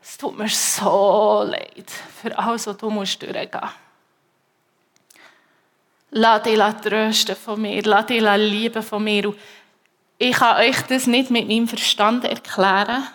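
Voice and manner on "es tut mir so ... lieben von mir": gentle divine comfort, mostly whispered; voice of God. Retold or imitated. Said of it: "höre ich Gott, der sagt".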